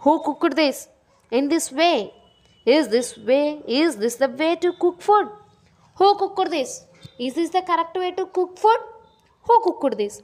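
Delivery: mildly angry acted questioning; Sri Krishna Devaraya. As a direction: demand answers with a touch of anger. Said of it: "Krishna Devaraya is saying angrily".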